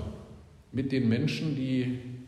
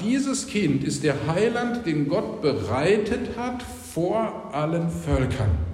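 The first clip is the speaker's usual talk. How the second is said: solemn proclamation; 3 semitones higher, slower than usual. Acted. Proclaiming Simeon's words.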